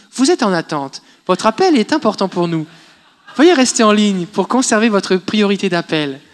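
canned hold message voice; customer service voice. Retold or imitated. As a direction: read it like a phone recording. Imitating hold message recording.

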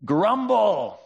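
"Grumble" sung out high and loud; drawn-out key word. Shown as a demonstration. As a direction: land hard on "Grumble" as the answer. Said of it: "began to what?".

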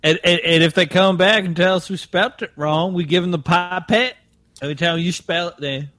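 playing Frank, a good ol' boy from Augusta; Augusta Southern accent. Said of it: "your Southern accent".

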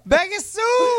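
very high hammed-up holler; mock holler. Co-host answering "Becky who", mock high holler.

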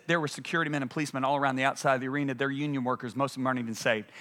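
low, softened acted account; subdued, low-pitched husband voice; imitated calm husband. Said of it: "he was a lot calmer".

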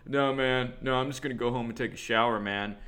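lightly imitated laid-back bro; same bro voice. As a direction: brush a buddy off in bro-speak. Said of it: "had, like, the same voice".

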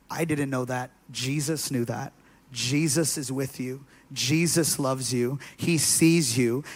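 slow, low, tender reassurance; gentle reassurance. Retold or imitated. Minister comforting a weeping girl at a witch festival, gently reassuring. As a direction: reassure softly, drawing the words out.

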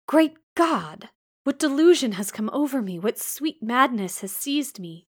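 high, loud cry of disbelief; overwhelmed exclamation. A narrator's reading. Blind man hears his lost love, overwhelmed. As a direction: cry out as if doubting your senses. Rochester overcome on hearing her.

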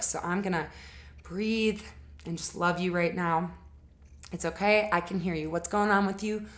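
gentle, patient, reassuring voice; kind, holding space. Shown as a demonstration. Partner calmly holding space for a triggered partner, kind and soothing. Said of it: "as when you can really just say".

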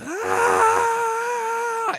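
long, high power-up scream; imitated anime scream. Fan mimicking endless Dragon Ball fights, drawn-out scream. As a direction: hold a straining anime battle scream. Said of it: "A lot of it was just".

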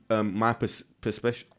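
stumbling over a word with a retainer; wearing a retainer. Real, not acted. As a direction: retainer in mouth. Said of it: "Sorry, guys, I got, my retainers are".

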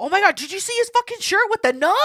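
high, loud mocking gossip voice. Mimicking passers-by gossiping, high mocking voice. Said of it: "then I heard people".

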